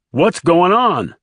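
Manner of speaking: high, drawn-out demand; agitated driver. A narrator's reading. Driver to the passengers, demanding an explanation. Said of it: "asked the driver".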